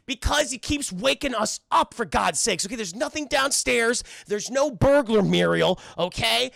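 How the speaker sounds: lightly hammed-up scolding; exasperated quarrel. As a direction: act out a fed-up husband.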